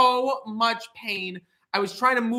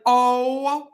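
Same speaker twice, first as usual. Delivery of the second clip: drawn-out oh my god; 3 dB louder, much slower than usual. Retold or imitated. Shocked at 104 fever.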